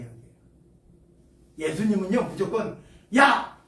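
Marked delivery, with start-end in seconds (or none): 3.2-3.6 higher, louder, slow bossy demand; mock domineering. Mock Jesus ordering people to follow, domineering. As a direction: boss them like a tyrant, in jest. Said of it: "이렇게 말하지 않아요".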